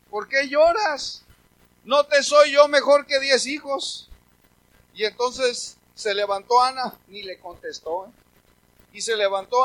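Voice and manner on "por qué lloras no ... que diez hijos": slow, raised, pleading husband; slow down and press the question; husband's plea. Acted. Husband asking weeping wife Ana, slow pleading. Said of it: "este hombre sí le dijo".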